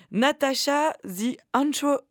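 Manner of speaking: slow, mock English accent on the name; slow, hammy English-accented name. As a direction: read the name like a hammed-up Englishman. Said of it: "mon accent anglais est vraiment formidable".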